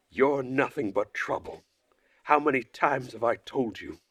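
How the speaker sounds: a hint of a leader about to explode; understated strict counselor; Olga's scolding. Leader lectures Uliana.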